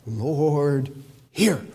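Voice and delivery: measured plea, each word set apart; stretched, solemn appeal; emotional prayer. Retold or imitated. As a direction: implore God with weighty pauses. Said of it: "the way he expresses this".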